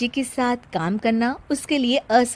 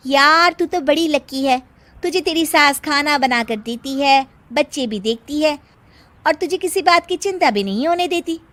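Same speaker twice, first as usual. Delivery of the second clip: envious office friend; 4 semitones higher, 4 dB louder than usual. Acted.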